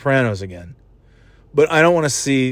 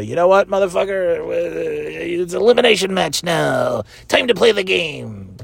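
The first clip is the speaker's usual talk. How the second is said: Triple H; 4 semitones higher than usual. Retold or imitated. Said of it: "Triple H would come out and say".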